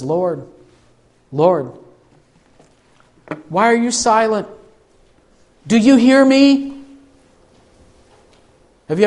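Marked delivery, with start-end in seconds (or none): 0.0-6.7 Habakkuk crying out. Retold or imitated. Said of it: "he says".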